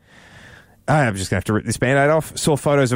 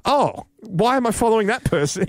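gushing then puzzled; 9 semitones higher than usual. Retold or imitated. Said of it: "I was like".

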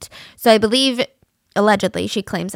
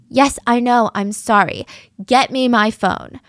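mock quarrel; 4 dB louder than usual. Acted couple's quarrel.

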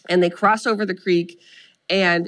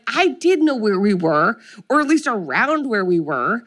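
mild mock indignant protest; lightly heated retort in a retold fight; retold angry screaming; 4 semitones higher than usual. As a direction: argue back, leaning on "did". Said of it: "she is screaming at him".

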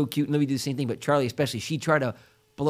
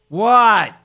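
put-on annoyed teen what; 5 semitones higher, 8 dB louder than usual. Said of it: "I go".

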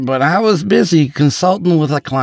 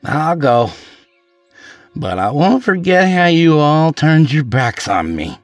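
menacing; 12 semitones higher, 5 dB louder than usual. Acted. Drunk man warns colleagues leaving, menacing raised voice. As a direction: promise a grudge, menacingly. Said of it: "He then frowned menacingly".

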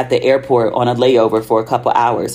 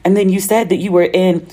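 higher, lilting friend's voice; imitated friend, pitched up; retold friend's excitement; 6 semitones higher than usual. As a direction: relay her excited remark in a raised pitch. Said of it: "She was making fun of my American accent".

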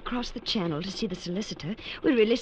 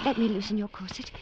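ordinary talk, nothing marked

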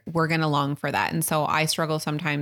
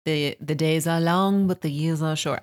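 mocking saying. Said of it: "that stupid saying".

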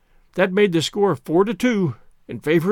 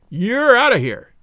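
higher, louder, slower "You're out of here."; emphatic ejection; 5 semitones higher, 4 dB louder, slower than usual. A narrator's reading. Umpire repeating the ejection to the captain, loud and slow. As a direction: slam it down slowly so he can't argue.

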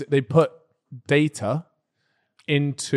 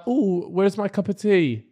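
slow, higher mock English accent; 4 semitones higher, 3 dB quieter, slower than usual. Showing how people mimic the English, slow hammed-up English accent. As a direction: caricature an English accent, drawn out. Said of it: "like, an English accent and be like".

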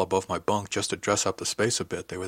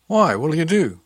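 high, louder challenge; defiant, pitched-up question; challenging; 7 semitones higher, 8 dB louder, slower than usual. A narrator's reading. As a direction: throw the question back as a dare. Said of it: "I asked in challenge".

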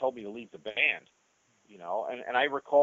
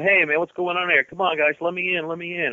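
half-mock yell through a locked door, higher; calling through door; 7 semitones higher, 4 dB louder than usual. Locked out of the men's room, calling to get in, mild mock yell. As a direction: shout to be let in, pounding. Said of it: "Blackie's banging on the door going".

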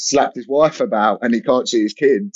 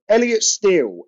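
higher, bare compere-style name call; mock flat announcement; 5 semitones higher than usual. Boss introducing the comedian on the mic, bare announcement. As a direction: announce him with zero fanfare. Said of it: "he just went".

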